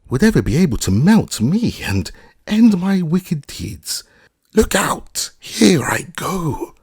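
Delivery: high, loud, wailing witch; dying witch crying out to Dorothy; melting witch. A narrator's reading. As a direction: give the witch's last cry as she dissolves. Melting witch's last words.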